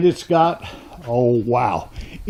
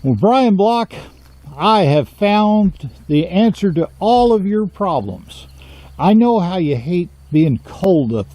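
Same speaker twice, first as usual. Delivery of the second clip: mock sales pitch; 3 semitones higher than usual.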